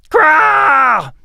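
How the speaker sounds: high, loud monster screech; shrill creature battle cry; creature war shriek. A narrator's reading. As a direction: burst out of the grass screeching. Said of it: "shrieked to life".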